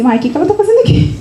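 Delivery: retold disbelief, rushed and lifted in pitch; puzzled surprise. Student thinking about a famous writer in a beginners' course, puzzled. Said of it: "Aí eu já estranhei".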